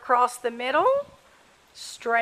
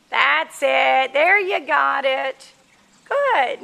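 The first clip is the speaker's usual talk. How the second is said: bright called-out praise; 4 dB louder, slower than usual. Real, not acted. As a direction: sing out the praise to the rider. Coach praising rider from afar.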